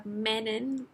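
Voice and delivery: "Manon" said MAN-un, first vowel as in "man"; trying a pronunciation. Shown as a demonstration. Reviewer trying out the new character's name, "Manon" as MAN-en. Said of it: "I don't know how to pronounce the name".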